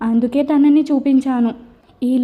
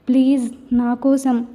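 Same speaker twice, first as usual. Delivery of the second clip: slow pleading; slower than usual. Acted. Wife slowly begging Surya to stay for the wedding. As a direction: draw it out, begging gently. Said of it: "అన్నాను మళ్ళీ".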